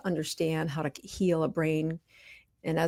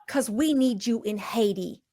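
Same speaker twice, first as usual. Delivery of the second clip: a higher-pitched, put-on thick Southern accent, retold; 4 semitones higher than usual. Church volunteer lady phoning the doctor, imitated thick Southern accent. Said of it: "this thick Southern accent".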